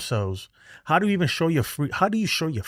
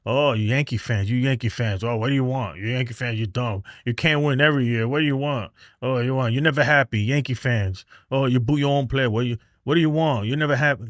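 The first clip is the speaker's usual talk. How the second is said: mocking rival fans; 2 semitones lower than usual. Yankees fan mimics rivals taunting him, mild mocking sneer. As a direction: needle the Yankee fans in a lightly voiced taunt. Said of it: "but you know what they'll say?".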